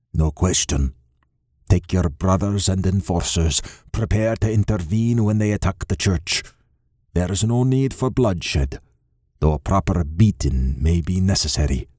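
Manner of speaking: a hint of an old clan chief; older Scottish father. Father gives orders.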